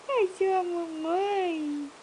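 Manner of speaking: sweet coo for a little one. Real, not acted. Mother cooing to baby.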